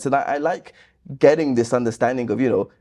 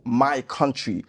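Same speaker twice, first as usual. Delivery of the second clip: mocking; 5 dB quieter, much slower than usual. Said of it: "this whole".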